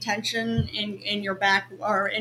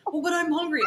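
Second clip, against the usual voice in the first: higher, mildly whiny objection; imitated complaint; 6 semitones higher, faster than usual. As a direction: mimic a stubborn kid's protest. Acts out his childish objection.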